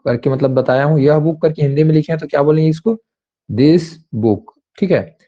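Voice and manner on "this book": दिस said slowly and with force, drawn out; stressed pronunciation. Shown as a demonstration. Teacher demos दिस for students, slow and forceful. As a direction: lean hard on दिस, slow. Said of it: "जोर से pronounce करते हैं".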